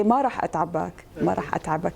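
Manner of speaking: tentative Levantine "ما راح اتعبك"; Lebanese-Syrian attempt, repeated; Lebanese-Syrian accent. Shown as a demonstration. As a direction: try the phrase in Levantine dialect. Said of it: "انا الخبط بين اللبناني والسوري".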